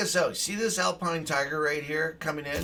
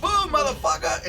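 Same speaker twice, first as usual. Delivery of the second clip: much higher, loud yell; triumphant shout; 14 semitones higher, 7 dB louder than usual. Real, not acted. Streamer nailing the enemy light, triumphant loud yell. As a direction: roar it as the shot lands.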